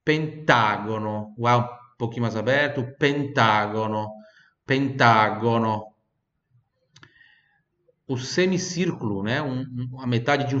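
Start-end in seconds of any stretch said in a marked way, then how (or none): 0.0-5.9 Italian accent. Shown as a demonstration. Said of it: "puxar aquele sotaque italiano do nono".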